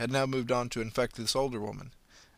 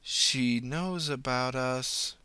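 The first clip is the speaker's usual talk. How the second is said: eerie slow voice; much slower than usual. Acted. Possessed woman alarmed.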